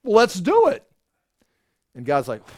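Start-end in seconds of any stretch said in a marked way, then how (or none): 0.0-0.9 much higher and louder, gung-ho; eager crowd. Pretend. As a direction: pump it up like a crowd shouting yes. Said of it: "all of Israel says".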